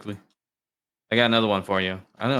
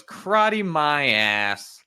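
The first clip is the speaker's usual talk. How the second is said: scoffing husband; 5 semitones higher, much slower than usual. Acted. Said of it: "The husband goes".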